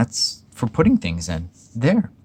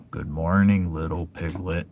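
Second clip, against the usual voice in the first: gloomy Eeyore; 2 semitones lower than usual. Acted. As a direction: greet him as if nothing is worth it. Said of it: "said Eeyore".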